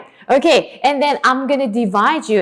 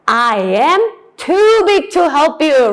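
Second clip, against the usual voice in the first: cow voice; 5 semitones higher, 4 dB louder than usual. Shown as a demonstration. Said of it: "What does it say?".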